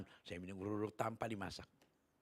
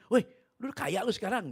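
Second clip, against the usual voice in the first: teasing exclamation; 11 semitones higher, 10 dB louder than usual. Retold or imitated. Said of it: "dia bilang gitu".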